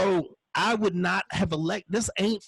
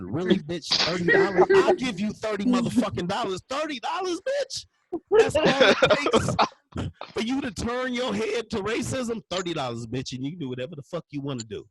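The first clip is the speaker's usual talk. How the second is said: incredulous rant; 4 semitones higher, 3 dB louder than usual. Acted. Ranting back at the Trump supporter.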